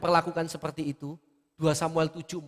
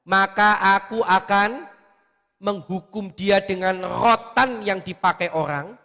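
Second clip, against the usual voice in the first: voicing God; 3 semitones higher, 6 dB louder, slower than usual. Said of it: "kata Tuhan".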